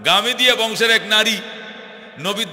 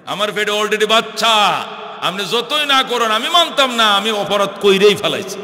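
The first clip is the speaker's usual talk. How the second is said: insistent confession. Retold or imitated. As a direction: insist on your guilt in a preacher's lilt. Woman insists on confessing her sin.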